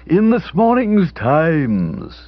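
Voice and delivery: hoarse tearful dowager on the phone; hoarse throaty voice. Acted. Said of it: "hoarse, throaty voice".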